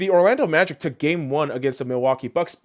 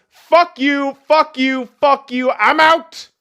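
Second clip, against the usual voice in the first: imitating a Jimmy Butler blowup; 9 semitones higher, 5 dB louder, slower than usual. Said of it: "he looks at your star guys and says".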